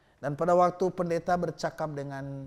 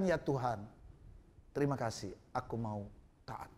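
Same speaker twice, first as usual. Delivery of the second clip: humble prayer; 3 semitones lower, 6 dB quieter than usual. Acted.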